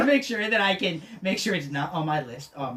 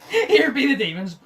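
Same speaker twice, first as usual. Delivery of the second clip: spooky voice; 8 semitones higher, 6 dB louder than usual. Pretend. Repeats demon line louder.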